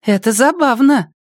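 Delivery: high eerie voice of a chat user. Acted. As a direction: speak high and thin, like a typed message. Anomie voice in chat. (высокий голос из чата)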